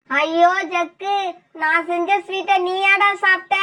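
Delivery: horrified wail. Acted. Mother finds son poisoned.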